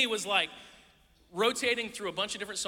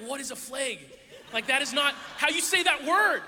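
rising, louder disbelief at a word; exasperated outburst; 5 semitones higher, 4 dB louder than usual. Retold or imitated. New kid baffled by Wisconsin pronunciation, exasperated. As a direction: protest the way they say it. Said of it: "And I sat there and went".

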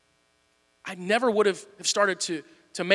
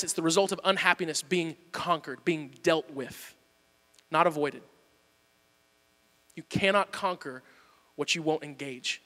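soft, slow emphasis; 6 semitones lower, 9 dB quieter than usual. Real, not acted. Sermon point slowing down.

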